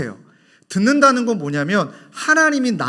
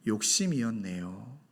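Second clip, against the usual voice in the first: contrite prayer; 9 semitones lower, 10 dB quieter than usual. Pretend. Confessing prayer to God.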